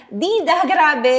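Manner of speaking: slow, drawn-out greeting; slow emotional hello; gushing reunion. Retold or imitated. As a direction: greet a long-missed sister. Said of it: "mom greeting sister".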